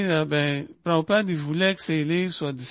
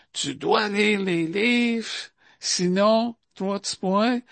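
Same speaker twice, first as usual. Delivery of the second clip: mock threatening demand; 3 semitones higher than usual. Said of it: "comme ben du monde peut dire".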